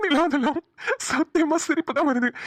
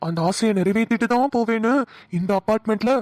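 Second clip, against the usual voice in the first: husky spooky voice. Acted. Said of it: "நீ பேசுற husky voice தாயா பயமா இருக்கு".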